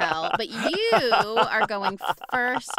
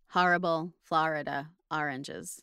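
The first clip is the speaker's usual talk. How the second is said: standard American accent; 3 semitones lower than usual. Shown as a demonstration. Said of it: "for standard, uh, American English accent".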